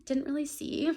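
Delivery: high, loud, hammed-up excuse; mock denial. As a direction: play innocent in a squeaky voice.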